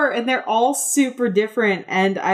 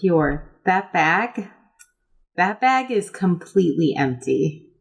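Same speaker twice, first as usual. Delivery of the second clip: put-on kid who's seen too much. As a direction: drag it out like a child who has seen too much. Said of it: "a kid who's, like, seen too much".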